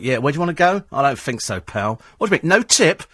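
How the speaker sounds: mock grumpy cab driver, rising into indignation; lightly voiced disgruntled cabbie; miserable cabbie. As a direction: play a cabbie affronted over a tip. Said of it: "one of the miserable ones".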